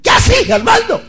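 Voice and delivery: put-on an old friend's sky-high falsetto hello; Cuchi's falsetto. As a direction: squeal it up in falsetto like a baguala singer. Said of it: "él habla así para arriba, así, en tono mayor y en falsete".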